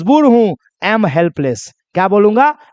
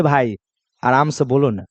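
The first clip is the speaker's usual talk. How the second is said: low, softened plea to calm down; soft calming request; 8 semitones lower, 5 dB quieter than usual. Acted. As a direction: bring it down low and quiet. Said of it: "जोर जोर से चिल्ला रहा है".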